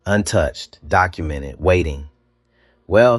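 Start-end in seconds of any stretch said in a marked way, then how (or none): 2.9-3.2 airy, higher and louder opener; said lightly. A narrator's reading. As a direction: toss it out lightly. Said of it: "she said lightly".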